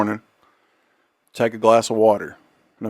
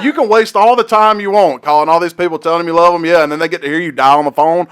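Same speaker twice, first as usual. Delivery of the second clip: laughing while quoting; 6 semitones higher, 6 dB louder than usual. Retold or imitated. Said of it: "It's like".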